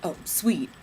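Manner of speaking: sarcastic, unvoiced "Oh, sweet"; eye-roll sarcasm. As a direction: breathe it out with a roll of the eyes. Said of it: "I rolled my eyes like".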